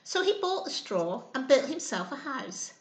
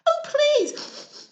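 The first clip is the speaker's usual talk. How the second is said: high, loud pleading wolf; snuffling wolf plea; 13 semitones higher, 6 dB louder than usual. Acted. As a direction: beg like a sniffly wolf. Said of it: "snuffed the Big Bad Wolf".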